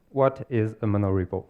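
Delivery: normal talking voice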